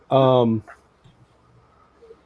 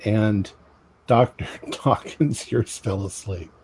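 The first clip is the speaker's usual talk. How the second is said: slow, emphatic narration; game master scene setting. Acted. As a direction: address the players slowly, pausing between phrases.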